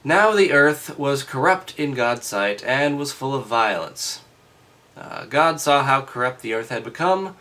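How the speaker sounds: loud, rising formal reading; declaiming Bible reading; scripture reading. Acted.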